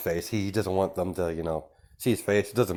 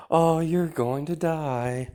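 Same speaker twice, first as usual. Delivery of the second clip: gleeful threat; 8 semitones higher, slower than usual. Acted. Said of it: "she starts laughing".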